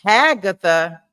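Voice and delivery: "Hagatha" said firmly, starting with a clear H; sounding it out. Real, not acted. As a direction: stress the H in "Hagatha". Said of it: "but with an H".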